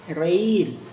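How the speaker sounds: "Reír" said loud as re-ír; slow pronunciation. Shown as a demonstration. Teacher gives a hiato example, deliberate separated vowels. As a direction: sound out both vowels of "Reír". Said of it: "Pronuncia palabras lentamente".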